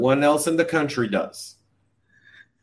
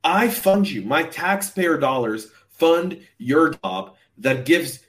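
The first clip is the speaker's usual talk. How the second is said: indignant taxpayer rant; worked up; 3 semitones higher than usual. Retold or imitated. Citizen retells scolding the embassy that hung up, worked up. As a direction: tell off a useless official, hitting each point. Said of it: "I am worked up".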